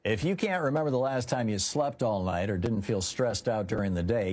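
upbeat, personal product endorsement; sponsor ad read. Acted. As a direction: sell it like a host-read radio spot. Reads a sponsor ad.

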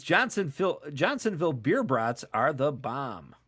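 put-on thick Wisconsin accent, drawn out. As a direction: read it with a Wisconsin twang. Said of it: "it's okay to have an accent".

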